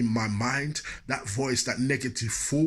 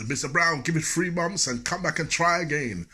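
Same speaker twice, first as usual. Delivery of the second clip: high, loud apology blared across the shop; shouting clerk; 6 semitones higher, 3 dB louder than usual. Retold or imitated. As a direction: announce the bad news loud for everyone to hear. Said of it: "he was always shouting".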